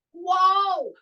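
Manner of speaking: a demo "Whoa!" as if catching a toe; mock stumble. Shown as a demonstration. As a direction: act out a sudden trip. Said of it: "This is teaching your reactivity".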